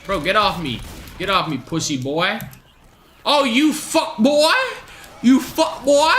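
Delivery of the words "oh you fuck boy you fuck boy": mocking taunt. Real, not acted. Taunting an opponent in game.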